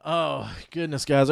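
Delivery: slow weary sigh; heavy sigh. Real, not acted. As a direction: sigh it out, tired. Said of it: "Why are you sighing so much?".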